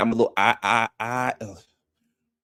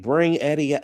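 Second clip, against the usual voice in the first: mock yell, pitched up; retold yelling; 4 semitones higher than usual. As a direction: imitate people calling someone out. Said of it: "they start yelling".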